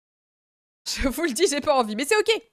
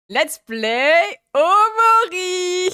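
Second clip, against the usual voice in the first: drawn-out eager; 5 semitones higher, 3 dB louder, much slower than usual. Real, not acted. Savouring a goal she wants.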